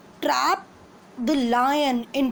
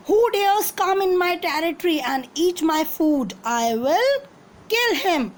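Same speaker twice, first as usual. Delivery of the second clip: angry; 4 semitones higher than usual. Acted. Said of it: "angry about this".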